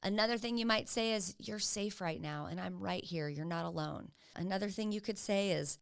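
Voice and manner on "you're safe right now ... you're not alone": reassuring. Acted. Reassuring an upset child.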